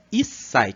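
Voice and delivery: "Issai" with a held stop before sai; short pause. Shown as a demonstration. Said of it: "a gente dá uma pequena pausa no som". ("Issai" com pausa no tsu pequeno)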